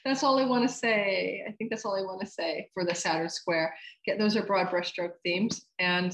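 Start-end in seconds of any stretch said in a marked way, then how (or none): 0.0-1.9 talking around a pen in the mouth; words slightly blocked by a pen; pen in teeth. Real, not acted. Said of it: "I just put a pen in my mouth".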